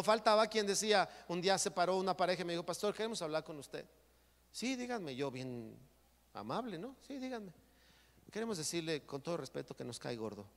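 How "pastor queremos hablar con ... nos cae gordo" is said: softer, polite retelling of the couple; soft and careful, mock politeness; quiet polite voice. Couple telling the pastor politely that they dislike him, soft.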